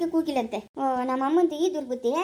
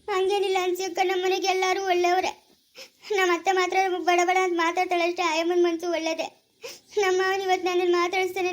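plaintive, on the edge of crying; tearful complaint. Acted. Daughter defending her in-laws to her elder sister, tearful. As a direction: explain it tearfully, with mild self-pity. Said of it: "ಅಳ್ಬೇಡ, ಅಳ್ಬೇಡ".

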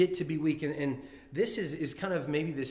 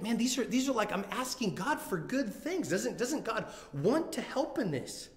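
higher, pleading plea to God; pleading prayer; 5 semitones higher than usual. Retold or imitated. Imagined believer begging God for help, higher pleading voice. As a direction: beg God for a baby, raw and urgent. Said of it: "And you think".

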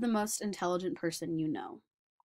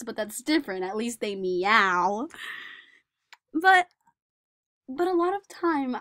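put-on earnest young man recalling school, wistful; Daniel remembering childhood; 4 semitones higher, 5 dB louder than usual. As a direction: tell the memory as the lonely boy grown up. Performer plays Daniel Tammet.

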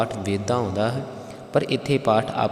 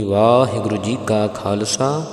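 ringing Fateh call; 3 dB louder than usual. Real, not acted. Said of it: "ਗੱਜ ਕਰਕੇ ਫਤਿਹ ਗਜਾਉਣੀ".

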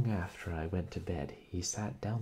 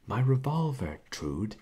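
higher, louder, startled cry on revolver; shocked exclamation; 7 semitones higher, 8 dB louder than usual. Acted. Brother to sister, stunned to hear his gun was found, loud shocked exclamation. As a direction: blurt it out in alarm. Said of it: "he exclaimed".

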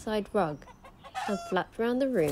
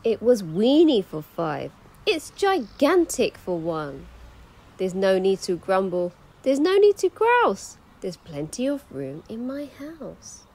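put-on grateful old lady; 6 dB louder than usual.

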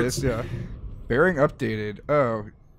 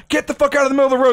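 retold yell; 11 semitones higher, 4 dB louder, much faster than usual. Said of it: "I yell".

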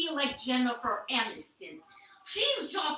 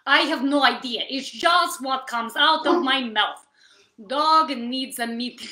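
npc voice; 3 semitones lower, 5 dB louder than usual. Pretend. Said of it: "N P C voice".

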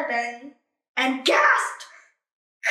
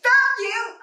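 singsong found you; 10 semitones higher, 7 dB louder than usual. Acted. Hide and seek game.

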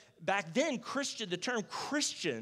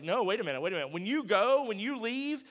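alarmed disciples; 3 semitones higher, 4 dB louder than usual. Retold or imitated. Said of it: "the disciples are like".

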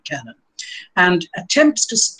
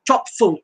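"Top full" with equal weight on each word; both syllables stressed; 4 semitones higher than usual. Shown as a demonstration. Lecturer demonstrating a spondee, "Top full" with double stress. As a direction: land firmly on "Top", then on "full". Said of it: "stressed both the syllables".

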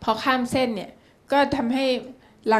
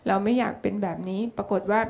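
ordinary delivery

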